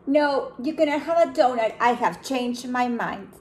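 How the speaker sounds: a stern no, then settle; panda refusing. Acted. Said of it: "said the panda bear".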